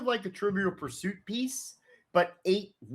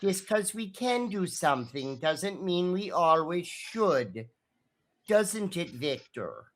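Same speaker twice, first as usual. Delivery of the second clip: pointed scolding. Acted. Dolores pointedly scolds Victor.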